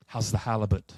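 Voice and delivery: put-on lightly done Australian accent sliding into Fargo; botched Australian accent. Mocking a question to Janet Yellen, botched Australian accent. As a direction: try Australian, land somewhere near Fargo. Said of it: "my Australian has a Fargo accent".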